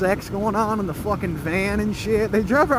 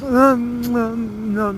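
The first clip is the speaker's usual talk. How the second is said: put-on baby-like sleepy noises; little baby; 3 semitones higher, 3 dB louder, much slower than usual. Drunk singer settling in the car seat, little baby noises. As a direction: lightly mimic a baby drifting off. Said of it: "like a little baby".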